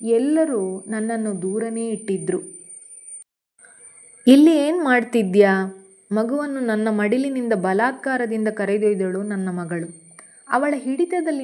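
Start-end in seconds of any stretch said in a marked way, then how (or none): 4.3-5.8 sharp rebuke. Acted. Resentful daughter snatches child away.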